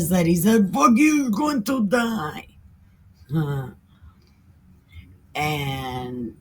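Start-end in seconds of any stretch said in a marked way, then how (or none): 0.7-2.5 rushing, gleeful mock curse; mock prophet rant. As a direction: ham up the prophet's curse with a grin.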